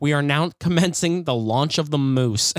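hammed-up launch announcement over the intercom; Sigourney Weaver announcement. Retelling the film's launch line as a mock intercom announcement. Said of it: "the bass, she's like".

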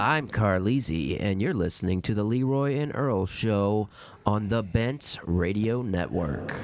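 sexy voice. Shown as a demonstration. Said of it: "Like that, dude".

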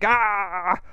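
mock shout. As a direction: let out a mock battle yell.

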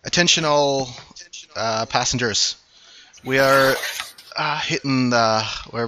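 captain over the ship's PA; PA announcement. Acted. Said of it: "you hear a call, like, through the P A".

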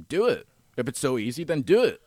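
shouting a dare; loud and pushy, daring him; loud challenge. Retold or imitated. Retold challenge to the buddy.

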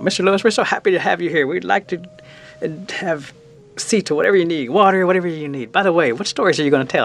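quick, lifted welcome with a touch of gush; lightly voiced gushing host. Woman welcoming the visiting storyteller, lightly imitated gushing. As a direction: imitate an eager host fussing over a guest.

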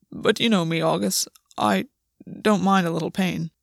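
a hint of a reserved lover's voice; lightly voiced, hesitant and broken by pauses; lightly voiced character. A narrator's reading. Gwen reassures August about pain, lightly voiced.

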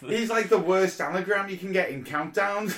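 high, loud comic rant; laughing exasperation. Real, not acted. Co-host struggles with the artist's name, laughing exasperation. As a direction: crack up while ranting, pitched well up.

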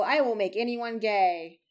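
half-joking threat, trailing down low; threatening. Real, not acted. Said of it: "I'm sounding very threatening".

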